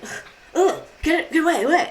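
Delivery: high, huffy grunts of a mock king; fussy king. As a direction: imitate a petulant royal shooing. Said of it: "and the king's like".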